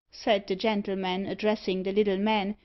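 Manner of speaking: plain reading voice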